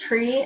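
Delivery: "tree" for "three", TH as T; "tree" with a hard T, no TH; Chicago accent. Shown as a demonstration. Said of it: "instead of three".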